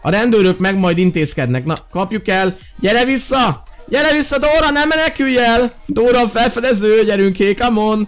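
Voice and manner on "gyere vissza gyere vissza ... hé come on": high calls chasing someone; calling after. Real, not acted. Gamer chasing the fleeing Dóra, calling out high. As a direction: call her back, much higher.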